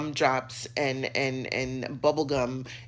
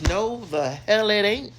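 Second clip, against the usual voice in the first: emphatic refusal; 6 semitones higher, 7 dB louder than usual. Real, not acted. Rejecting a divorce video.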